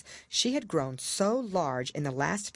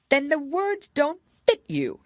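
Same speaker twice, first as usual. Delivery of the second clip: higher, louder sly royal quip; smug king; 12 semitones higher, 6 dB louder than usual. A narrator's reading. King punning to the silent court. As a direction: deliver it smugly.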